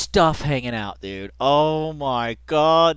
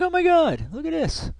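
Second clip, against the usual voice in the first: retold shock. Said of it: "I was like".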